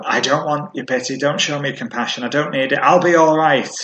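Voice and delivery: a touch of prickly pride, pushing help away; mock defensive. Preacher imitating a grieving person refusing pity, mildly defensive. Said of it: "a bit of a defensive, insecure expression".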